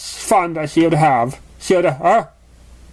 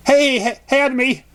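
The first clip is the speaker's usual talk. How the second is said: high, bubbly and eager; high excited pony calling out; bouncy pony voice; 7 semitones higher than usual. Acted. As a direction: bounce the words like a hyper pony. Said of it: "she bobbed".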